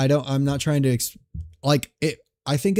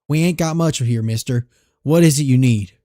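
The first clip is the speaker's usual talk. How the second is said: put-on southern accent; 3 dB louder than usual. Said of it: "If you want me to do a southern accent".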